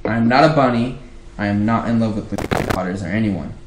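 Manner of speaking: a defensive retort. Shown as a demonstration. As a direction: push back defensively. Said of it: "way too defensively".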